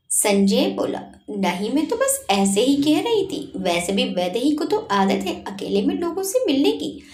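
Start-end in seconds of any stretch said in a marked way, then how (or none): 1.3-7.0 sarcastic jab. Acted. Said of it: "Nikki ने तंज मारकर कहा".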